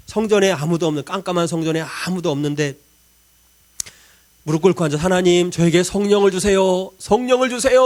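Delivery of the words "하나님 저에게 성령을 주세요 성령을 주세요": pleading prayer. Retold or imitated. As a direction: beg God out loud. Retold desperate night prayer. (간절하게 외치는 기도)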